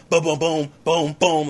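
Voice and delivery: punchy "boom" shots in rhythm; imitated gunfire booms. Soldier firing without even looking, imitated punchy booms. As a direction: voice quick gunshots as booms.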